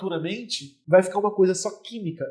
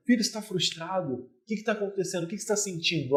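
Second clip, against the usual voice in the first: put-on softer, tender question to a child; gentle and emotional; 6 dB quieter than usual. Shown as a demonstration. Father softly comforting his crying toddler, tender. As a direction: soothe him as you ask how he feels. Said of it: "então eu tenho que ser emocional".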